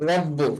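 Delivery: রব্বু with the ব held and said twice; doubled consonant. Shown as a demonstration. Teacher shows students the doubled ব in রব্বু. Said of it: "দুইবার আওয়াজ করে মিলিয়ে পড়তে হবে".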